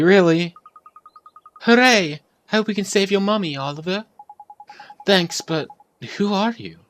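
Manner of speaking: put-on high, eager kid character; excited child voice. Boy asking the fairy who she is, high and eager. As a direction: bounce every line like a thrilled little boy. Reading child game dialogue aloud.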